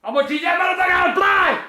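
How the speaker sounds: fast angry yell; shouted threat. Real, not acted.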